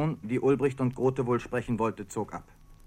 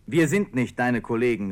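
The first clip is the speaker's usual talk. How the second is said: called out; 5 dB louder than usual. Retold or imitated. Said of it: "riefen die Demonstranten".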